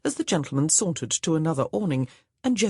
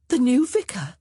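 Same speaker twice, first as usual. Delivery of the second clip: whispering; 8 semitones higher, 6 dB louder than usual. Acted. Conspiratorial aside about suitor.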